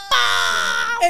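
a high, loud shocked yelp at the door. Retold or imitated. Retelling the moment she saw a singer, high loud shocked yelp. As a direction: blurt it out high and loud, stunned.

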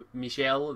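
"Michel" said mee-SHELL; French-style pronunciation. Shown as a demonstration. Reviewer offering viewers another pronunciation, "Michel" as mee-SHELL. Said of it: "depending what your pronunciation".

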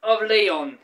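high, loud mock whining, sliding down; hammed-up high-pitched protest; complaining fans. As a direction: imitate fussy fans in a rapid string of noes. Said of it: "people start being all like".

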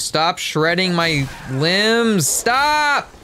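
high pained yell. Pretend. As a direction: cry out as you're mauled. Attacked by dogs, yelling.

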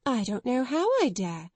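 a touch of reckless courage. Acted. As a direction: lightly dare yourself to speak. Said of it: "with a kind of reckless courage".

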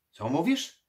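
loud, high, alarmed query; sharply rising, startled voice; startled question. Acted. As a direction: blurt it out, taken aback. Startled necromancer backs away, asks.

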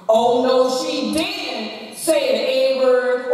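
loud, drawn-out mock disbelief; mock-scandalized. Acting out congregation's shocked reaction.

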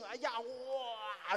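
mock lament. Voicing White Snake's inner misery.

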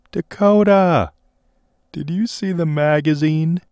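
a bright call, high and loud; cheerful shout. A narrator's reading. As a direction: greet her loudly and gladly on the phone. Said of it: "He shouted cheerful".

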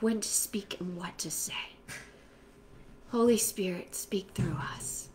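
whispered devotional prayer. Real, not acted. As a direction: pray close and hushed. Quiet personal prayer.

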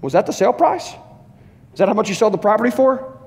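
a hint of Peter pressing for the truth; Peter questioning. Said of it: "and then Peter says".

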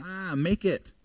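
ordinary delivery

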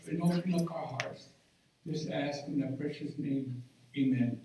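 hushed, reverent prayer voice. Acted.

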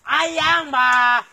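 put-on calling out loud and exasperated to his girlfriend; loud plea. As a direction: shout her pet name in frustration. Pleading argument with girlfriend on phone.

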